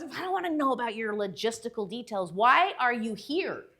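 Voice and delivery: lightly acted intimidating boss; terrifying boss. Boss questioning her flustered intern, lightly imitated intimidation. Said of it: "she was terrifying to work for".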